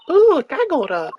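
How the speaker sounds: high, loud, slow delighted gasp; a drawn-out thrilled exclamation; gleeful ooh. Acted. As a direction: savour the juicy secret. Excited reaction to secrecy.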